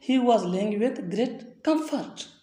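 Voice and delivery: every word slowed way down; slow dictation. Shown as a demonstration. Teacher giving the translation to learners, slow and deliberate. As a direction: read it out slowly for the class. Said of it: "teacher reads the English answer".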